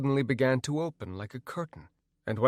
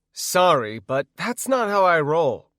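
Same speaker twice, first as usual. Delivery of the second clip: loud defiance; 5 semitones higher, 7 dB louder than usual. Acted. Defiant reply in struggle.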